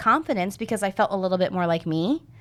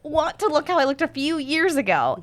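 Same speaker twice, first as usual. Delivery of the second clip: pleading inner voice; 8 semitones higher than usual. Retold or imitated. Retold inner plea.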